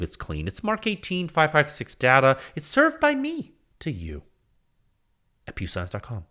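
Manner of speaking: selling the data like a sultry TV spot; mock commercial. Host pitching his data to viewers as a mock commercial. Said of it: "how's that for a commercial".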